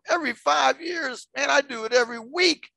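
high, loud disbelief; incredulous reaction. Retold or imitated. Speaker reacting to a study's five-year figure, loudly incredulous. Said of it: "And I'm going".

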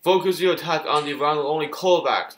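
commander impression. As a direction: bark orders like a battlefield commander. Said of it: "that's what he sounds like".

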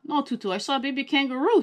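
loud, fast insistence; insisting. A narrator's reading. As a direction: stand firm. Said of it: "he insisted".

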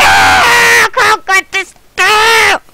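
slow, drawn-out triumphant yell; stretched-out shout. Real, not acted. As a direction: stretch the words out as you cheer.

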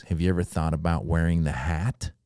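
low, soft suggestion; mafia boss. Retold or imitated. Club owner pitches a costume, low confidential mob-boss tone. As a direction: float it like a quiet godfather. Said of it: "it's like a mafia situation".

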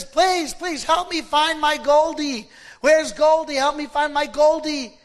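put-on an old man begging the doctors to find his granddaughter; pleading scream. Old man begging the doctors to find Goldie, retold pleading scream. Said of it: "the old man is screaming a name".

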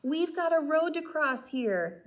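high, loud yelling ants; rowdy ants yelling. Acted. Ants yelling at the snail blocking their way, high and loud. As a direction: shout them off the road like a rowdy gang. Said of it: "yelled a troop of rowdy ants".

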